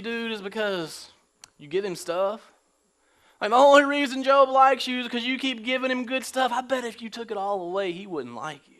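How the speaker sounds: laid-back bro talking to God; lightly voiced slangy Satan; casual dude Satan. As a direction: play Satan as a chill surfer dude.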